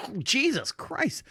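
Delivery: slow exasperated groan of Oh, Jesus Christ; slowly fed up with himself. Retold or imitated. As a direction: drag it out, fed up.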